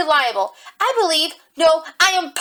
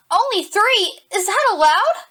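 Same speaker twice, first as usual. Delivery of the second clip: startled disbelief; 7 semitones higher, 5 dB louder, slower than usual. Acted. Attorney startled by judge's offer.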